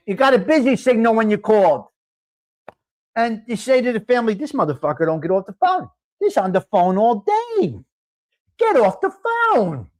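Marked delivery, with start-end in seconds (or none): 4.3-9.9 mock annoyed complaint. Complaining to family about caller.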